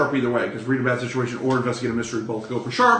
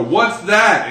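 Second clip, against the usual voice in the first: curious question; 7 semitones higher, 7 dB louder than usual. Retold or imitated. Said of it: "you go".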